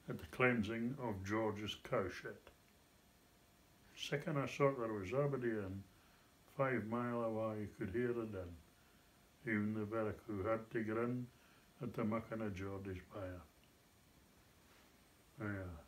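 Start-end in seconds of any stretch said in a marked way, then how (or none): 3.9-13.4 broad Scots. Shown as a demonstration. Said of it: "Doric Scots".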